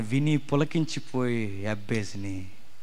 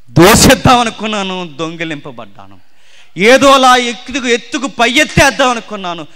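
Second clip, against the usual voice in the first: pleading prayer; 2 semitones lower, 4 dB louder than usual. Acted. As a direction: pray like a broken man begging. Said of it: "అప్పుడు ప్రార్థన చేశాడు".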